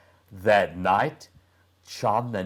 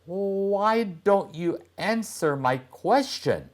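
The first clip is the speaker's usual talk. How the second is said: put-on boy's voice; 11 semitones higher than usual. Boy asks girl, annoyed.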